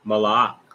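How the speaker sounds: Malak with the last vowel said apart, ma-la-ak; separated syllables. Shown as a demonstration. Teacher showing learners the word, Malak broken into syllables. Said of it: "That's how you pronounce it".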